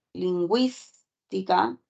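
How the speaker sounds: "lingüística" said slowly, every syllable clear; slow demo. Shown as a demonstration. Teacher slowly sounds out "lingüística" for the class. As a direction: spell out "lingüística" by ear, slowly. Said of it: "Y la palabra lingüística".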